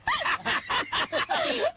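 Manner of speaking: high burst of laughter at her tears; teasing guffaw at the weeping bride; mocking laugh. Mocks the crying woman.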